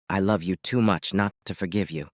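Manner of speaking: tender forgiveness. Acted. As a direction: soften into forgiving her. Husband forgives sobbing wife.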